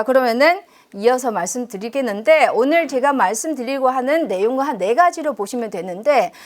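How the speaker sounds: ordinary talk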